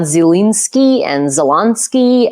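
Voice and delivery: "Zelensky" with wrong middle vowels, first EE then AH; mispronounced Zelensky. Shown as a demonstration. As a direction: garble "Zelensky" two ways, as zee-LEEN-skee and zeh-LAHN-skee. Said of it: "whatever it is that you people normally say".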